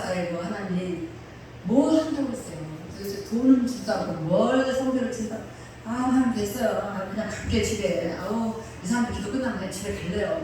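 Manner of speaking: grumbling prayer. Retold or imitated. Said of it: "막 이랬어요".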